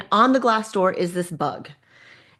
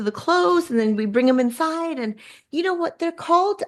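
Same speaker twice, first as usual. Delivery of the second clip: hotel employee; 6 semitones higher than usual. Retold or imitated. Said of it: "And he's like".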